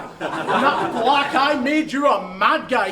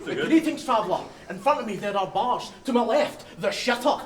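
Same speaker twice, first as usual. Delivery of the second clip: lower, solemn game-guide greeting; fantasy quest guide; 3 semitones lower, 3 dB quieter than usual. Retold or imitated. Mocking the rival's rap as a quest guide, lightly voiced. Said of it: "why do you sound like Falkenhoof or Guide on this quest".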